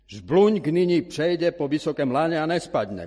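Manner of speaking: loud, high circus barker; announcer crying out. A narrator's reading. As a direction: call out the daring act to the crowd. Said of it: "vyvolával hlas".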